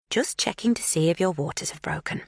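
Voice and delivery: a calm midwife's reassurance; calm and reassuring. A narrator's reading. Magda examines her captive in a calm, reassuring midwife's tone. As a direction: settle her like a midwife would. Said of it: "Her tone is that of a midwife now, calm and reassuring".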